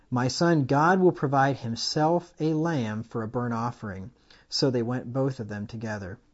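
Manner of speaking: loud, full preaching read of the verse; proclaimed reading. Shown as a demonstration. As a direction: declaim it to the congregation. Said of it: "he said it better than I did".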